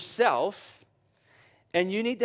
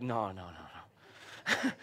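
mock slow refusal; 9 semitones lower, 9 dB quieter, much slower than usual. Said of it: "I'm like".

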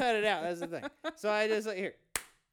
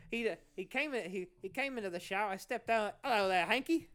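Australian comic's storytelling; Jim Jeffries. Acted. Host retells the comedian's shower joke, Australian accent. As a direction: narrate the routine in a put-on Aussie accent. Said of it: "just doing his bit".

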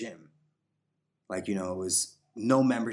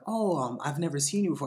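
imitating the girl; 7 semitones higher, 3 dB louder than usual. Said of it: "she was like".

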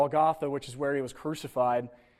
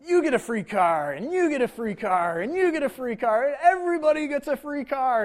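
climbing higher and louder with each free car; Oprah giveaway; 8 semitones higher, 3 dB louder than usual. Retold or imitated. Preacher imitating Oprah to his congregation, a rising gleeful giveaway shout. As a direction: hype it up like a talk show host giving away cars. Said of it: "those clips of Oprah where she's like".

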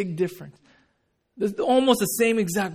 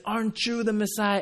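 wrong attitude, challenging; 4 semitones higher than usual. Retold or imitated. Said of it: "his attitude wasn't at the right place".

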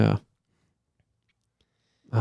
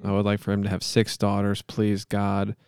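measured, solemn monotone plea; earnest-sounding improvised prayer; mock prayer; 2 semitones lower than usual. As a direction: pray aloud with halting mock sincerity.

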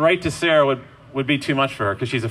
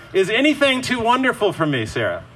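tender reassurance; 3 semitones higher than usual. Acted. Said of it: "say to her".

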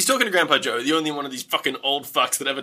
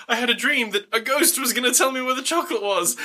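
therapy patient; 6 semitones higher than usual. Retold or imitated. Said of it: "some guy's talking to his therapist".

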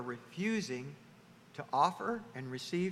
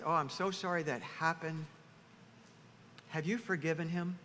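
gentle sympathy; 4 dB quieter than usual. Shown as a demonstration. Models caring reply after indignant one.

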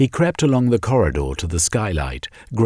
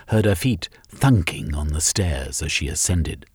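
plain reading voice

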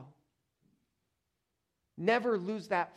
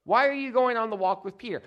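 raised, louder indignant challenge; accusing swipe; 6 semitones higher, 6 dB louder than usual. Acted. John takes a swipe at Peter before the Lord, accusing. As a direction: protest loudly and high, taking a swipe at a rival. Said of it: "And John takes a swipe".

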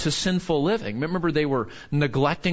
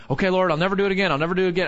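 hasty promise; 2 semitones higher, much faster than usual. Retold or imitated. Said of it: "we talk like that".

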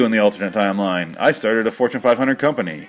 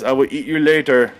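mock wrestler voice. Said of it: "he says".

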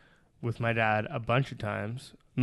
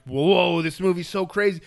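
higher, louder imitation of an awed viewer; mock amazement; 6 semitones higher, 4 dB louder than usual. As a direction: exaggerate a wowed moviegoer's reaction. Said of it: "you're like".

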